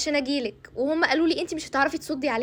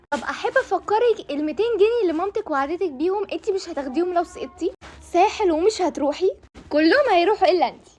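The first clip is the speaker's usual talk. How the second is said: threatening build-up; 3 semitones higher, 3 dB louder than usual. Acted. Conscience threatening lost money, trip.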